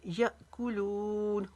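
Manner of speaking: यअकुलून very slow, कू short and लू long; slow recited यअकुलून; tajweed recitation. Shown as a demonstration. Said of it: "कू को लंबा नहीं करेंगे".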